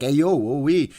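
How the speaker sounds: mock New Yorker calling out; Tony Danza. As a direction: put on a brash New York accent. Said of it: "talks like that or Tony Danza".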